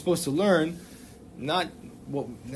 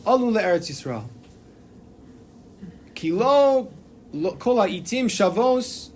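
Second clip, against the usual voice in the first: a touch of a grand, booming heavenly voice, opening higher and louder; booming divine voice; 3 semitones higher, 4 dB louder than usual. Retold or imitated. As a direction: lightly proclaim it like a voice from heaven.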